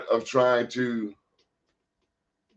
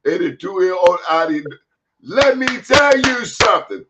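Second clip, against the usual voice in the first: put-on West African accent, pitch climbing at the end. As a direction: build to an emphatic West African declaration. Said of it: "this is my West African accent".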